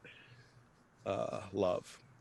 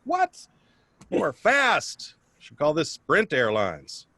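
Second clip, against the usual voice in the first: mock surprise; 4 semitones higher, slower than usual. Surprised at Myrna again.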